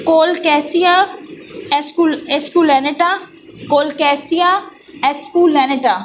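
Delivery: Colocasia esculenata read slowly, each syllable clear, with pauses between words; careful pronunciation. Shown as a demonstration. Teacher reading a plant name aloud so students repeat it. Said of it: "मैं pronounce इसलिए कर रही हूँ".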